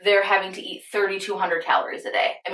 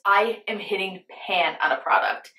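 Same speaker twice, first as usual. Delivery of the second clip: hushed aside to the camera; whispering. Real, not acted. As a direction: whisper it like a secret. Aside whisper to viewers mid-story.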